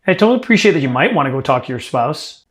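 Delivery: emphasize the word "might"; a conversational line that leans on "might"; stress on MIGHT. Shown as a demonstration. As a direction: let "might" stand out to plant doubt. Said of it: "Don't forget, next time, might".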